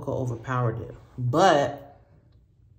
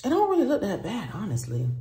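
laughing; 7 semitones higher than usual. Real, not acted. Laughing at her result.

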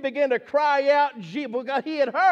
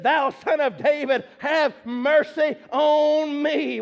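crying out; 3 semitones higher, 5 dB louder, slower than usual. Acted. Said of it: "he began to cry a great deal".

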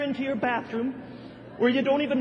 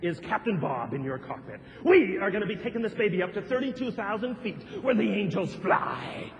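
monster truck ad; 3 semitones lower than usual. Retold or imitated. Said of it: "impersonation of a monster truck rally announcer".

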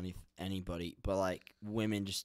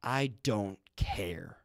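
flat whisper; 4 dB louder, much slower than usual. Shown as a demonstration. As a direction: breathe it out slowly with no emphasis. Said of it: "If I was trying to add emphasis on the point that I don't care".

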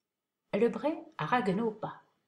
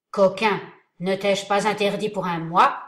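menacing; 7 dB louder than usual. Acted. Hidden voice scolds the actor.

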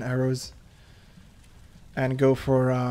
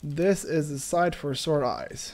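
mock tearful; 3 dB quieter, slower than usual. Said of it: "I'm gonna cry".

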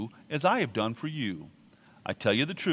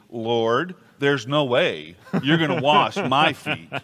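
blunt refusal; 6 dB louder, slower than usual. Retold or imitated. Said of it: "What he's really saying is".

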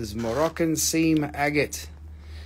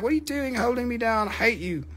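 cat voice; 8 semitones higher, faster than usual. Pretend. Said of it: "they'll be like".

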